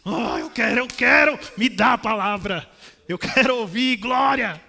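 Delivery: loud, pleading want; eager craving. Shown as a demonstration. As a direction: beg for the word like a hungry child. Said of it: "como uma criança recém-nascida, deseja o leite".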